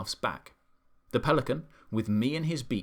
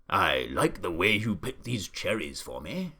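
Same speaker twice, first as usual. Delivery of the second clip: lightly voiced old Duke, lower pitch; Duke mollified; 4 semitones lower than usual. A narrator's reading. Duke to cherry pickers, lightly voiced approval.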